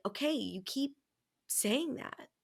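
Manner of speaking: imitating a gentle, puzzled partner; not mean. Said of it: "not, like, in a mean way".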